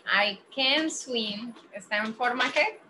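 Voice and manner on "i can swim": slow, spelled-out I can swim; slow careful English. Shown as a demonstration. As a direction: say it slowly so students catch each word. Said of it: "si aquí dice".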